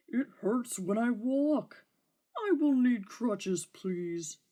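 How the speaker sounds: a hint of a spoiled hurt beast; sulky dragon. Dragon to the knight, mildly whining for crutches.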